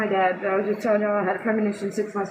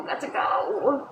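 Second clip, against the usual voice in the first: slow, whispered got to go; whispered repeat; 3 dB quieter, slower than usual. Shown as a demonstration. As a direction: let it fade into a whisper. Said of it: "got to go, got to go".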